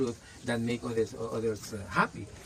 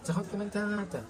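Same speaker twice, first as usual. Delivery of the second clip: bowing Mayan thanks; 7 semitones higher, 5 dB quieter than usual. Retold or imitated. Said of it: "they bow the bodies when they talk to you, like".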